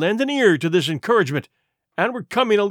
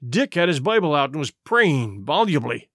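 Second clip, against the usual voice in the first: ordinary delivery, nothing marked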